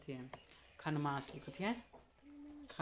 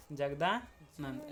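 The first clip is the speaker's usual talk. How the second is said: जगदानंद drawn out slowly, each syllable apart; 2 semitones lower, much slower than usual. Shown as a demonstration. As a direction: spell out जगदानंद slowly for the class. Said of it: "अत है जगदानंद". (जगदानंद को धीरे-धीरे, एक-एक अक्षर अलग करके बोलो)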